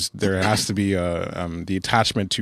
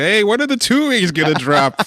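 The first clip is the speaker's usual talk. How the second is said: imitating fans; 13 semitones higher, 7 dB louder than usual. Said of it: "No one said anything".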